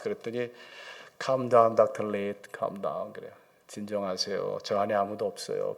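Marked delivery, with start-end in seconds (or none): 1.2-3.1 lightly voiced calming nurse; soothing. Acts nurse soothing frightened doctor. 3.7-5.8 low, soft imitation of a calming nurse; lightly acted gentle reassurance; reassuring. Acts nurse soothing him while hugging.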